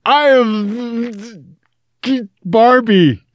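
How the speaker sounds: high, halting attempt at an Australian accent; bad Australian accent. Co-host forced to speak Australian for his drift car, badly faked Australian accent. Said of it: "I must speak with an Australian accent".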